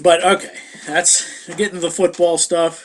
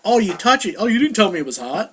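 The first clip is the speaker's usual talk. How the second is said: mock dumb whine; 3 semitones higher, faster than usual.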